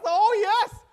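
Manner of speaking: high, loud, delighted retold yes; a loud high yes, thrilled to be asked; eager yes. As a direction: jump at the chance, loud and high. Agreeing to bring the cookbook.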